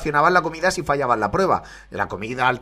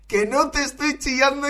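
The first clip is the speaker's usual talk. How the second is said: higher, half-hearted mock yell; 9 semitones higher than usual. Host quoting the contestant's yelled denial, mild mock yell. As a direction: imitate her shouting denial lightly. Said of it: "y se lo dice a grito pelado".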